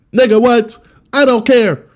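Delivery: a cartoonishly high yell of dismissal; mock shout. Shown as a demonstration. Redoing his outburst at the well-meaning crowd, hammed-up high yell. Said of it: "I forgot how I did it".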